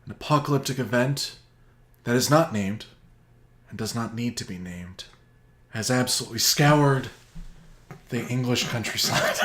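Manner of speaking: grave, slow trailer-voice storytelling; mock-epic narration. Summarizing Endgame to his cohost as a grim epic saga. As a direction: tell it like a doom-laden epic.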